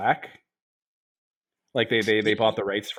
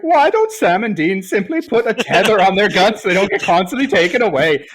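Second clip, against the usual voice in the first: mocking nerd voice; 7 semitones higher, 7 dB louder than usual. Mocking a fan's question.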